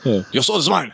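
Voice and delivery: slow evil villain laugh; slow theatrical villain menace. Retold or imitated. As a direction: gloat and cackle slowly.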